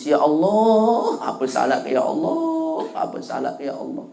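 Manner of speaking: mock wail, "ya Allah" stretched and swooping up, trailing off softly; meratap pura-pura. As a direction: imitate a woman's tearful plea to God. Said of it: "Ibu niki nangis". (menirukan ibu menangis meratap)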